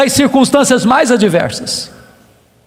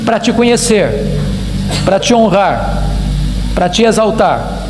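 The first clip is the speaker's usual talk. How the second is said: prayer; 4 semitones lower than usual. Real, not acted. Preacher praising God before the congregation, solemn prayer. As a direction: pray aloud, falling low at each close.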